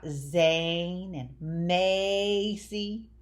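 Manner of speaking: ZANE and MACY with the A drawn out long; long A stretched. Shown as a demonstration. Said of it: "A is long and strong in".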